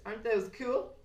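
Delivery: high, loud, thrilled question; excited. Real, not acted. Craft teacher asking viewers to admire antlers, excited.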